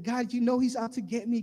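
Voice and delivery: mock desperate plea. Someone in danger praying for God to save them, mock desperate. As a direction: imitate an urgent cry for rescue. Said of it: "pray for God to save you".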